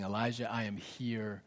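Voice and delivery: low, soft whisper of a loving father. Acted. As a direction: whisper it close and tender. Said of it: "the whisper of his father saying".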